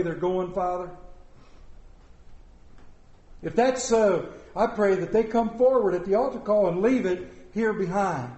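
earnest, measured prayer voice; pastoral prayer. Real, not acted. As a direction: pray over the room with steady sincerity. Leading congregational prayer.

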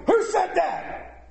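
high, drawn-out angry roar; Khrushchev. Retold or imitated. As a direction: roar it as a furious challenge. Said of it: "roared Khrushchev".

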